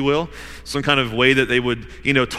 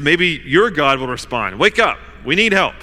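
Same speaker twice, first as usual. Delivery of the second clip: desperate plea; 3 semitones higher, 5 dB louder than usual. Acted. Desperate sailors begging Jonah.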